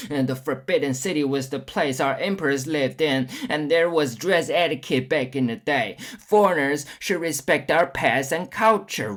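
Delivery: a lightly voiced stuffy traditionalist lecturing; mock conservative nationalist. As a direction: lay down the law like a smug patriot scolding foreigners. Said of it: "be saying".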